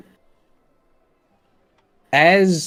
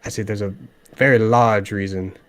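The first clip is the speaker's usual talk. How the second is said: stern Dragonborn; faster than usual. Acted. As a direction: warn them off as a stern Dragonborn. She has this stern look.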